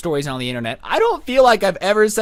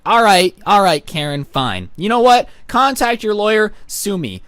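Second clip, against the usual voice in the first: exasperated shout; 3 semitones higher, 3 dB louder than usual. Retold or imitated. Exasperated reply to Karen.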